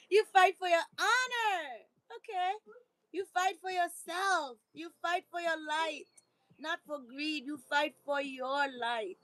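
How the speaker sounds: high-pitched, playful pep talk; rally the listener, voice lifted high; hammed-up motivational exclamation; rallying cry. Shown as a demonstration. Playful rallying after correcting herself.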